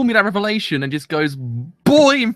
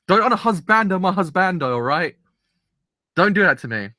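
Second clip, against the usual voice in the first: excited anime fan; 4 semitones higher than usual. Real, not acted. Pleading with anime plot.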